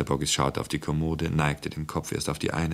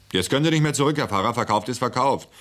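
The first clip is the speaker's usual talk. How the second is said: loud, high, triumphant refusal to back down; insistent, raised-voice seller; emphatic insistence; 7 semitones higher, 4 dB louder, faster than usual. A narrator's reading. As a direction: clinch it before he wriggles out. Seller stops buyer backing out.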